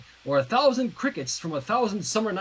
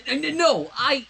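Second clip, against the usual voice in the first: higher, louder nervous stammer; 8 semitones higher, 4 dB louder than usual. A narrator's reading. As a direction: trip over the no in panic. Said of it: "Sunset stammered".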